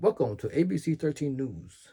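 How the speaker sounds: polished TV news anchor broadcast read. Imitating how TV anchors all talk: polished TV news anchor voice. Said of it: "They just all talk with that T V anchor way".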